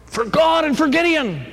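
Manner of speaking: high, ringing war cry; battle cry. Acted. Gideon calling his men to attack, battle cry. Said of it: "Gideon shouted".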